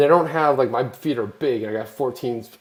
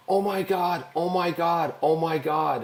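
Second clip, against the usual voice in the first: high gushing fan squeal; excited gushing; 4 semitones higher, 3 dB quieter, slower than usual. Retold or imitated. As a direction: gush like a starstruck fan. Excited fan spotting him.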